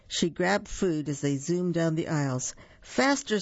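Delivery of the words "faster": high excited squeal. Acted. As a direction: squeal it like a thrilled little duck. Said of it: "squealed Duck".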